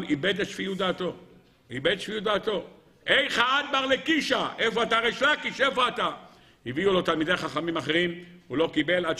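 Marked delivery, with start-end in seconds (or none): 3.1-6.1 high, desperate cry for a lost friend; distraught calling out. Acted. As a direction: call out for him in anguish, pitched high. Rabbi out of his mind, searching. (קריאה נואשת בקול גבוה)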